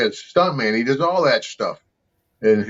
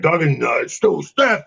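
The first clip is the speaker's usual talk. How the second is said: shouting; 6 semitones higher than usual. Retold or imitated. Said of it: "You're like".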